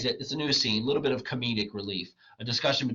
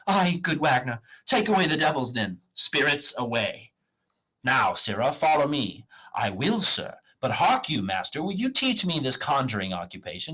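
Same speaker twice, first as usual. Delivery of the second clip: theatrical comic dialogue; dramatic play reading; 5 semitones higher, 4 dB louder than usual. Acted. Wagner mocks the poor clown, declaimed. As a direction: declaim the old lines with lively swings.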